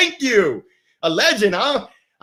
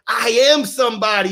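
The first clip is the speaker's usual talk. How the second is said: proud, raised declaration; said out loud; 2 semitones higher than usual. Shown as a demonstration. Reading a viewer's comment to the crowd, proudly and loudly. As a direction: call it out like a rally cry. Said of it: "Go ahead and say it loud".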